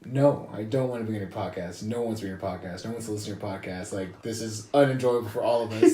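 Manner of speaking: low, quiet, deadpan refusal; dead serious. Retold or imitated. Friend turning down a podcast invitation, imitated dead-serious refusal. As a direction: drop low and soft, imitating a serious put-down.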